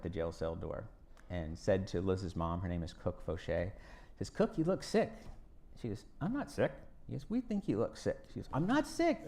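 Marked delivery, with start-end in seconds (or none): 4.3-5.1 guard's voice. Retold or imitated. Guard voiced in retold story. 6.2-6.7 mom's voice. Retold or imitated. Mom's reply voiced in story. 7.3-8.2 guard's voice. Retold or imitated. 8.5-9.2 high, laughing "I'm not sick"; a mock-stubborn mother laughing as she says it; laughing mom.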